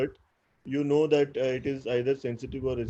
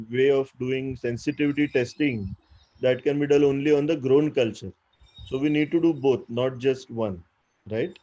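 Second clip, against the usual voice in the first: slightly raised lecturing voice; talking louder; 4 dB louder than usual. Real, not acted. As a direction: speak up a little for the listeners. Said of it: "I'll talk louder".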